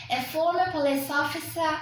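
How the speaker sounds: "A former police officer" given the same fall-rise as the phrase before. Shown as a demonstration. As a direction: repeat the fall-rise shape. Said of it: "fall rise plus fall rise".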